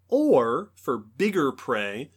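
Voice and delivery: muffled, as if biting; hand over mouth. Shown as a demonstration. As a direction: speak through a covered mouth. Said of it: "if I sound muffled, it's because I'm demonstrating".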